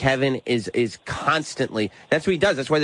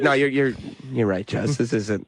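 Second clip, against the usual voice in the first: meek backing down; 4 semitones lower than usual. Retold or imitated. Giving in to wife's scolding.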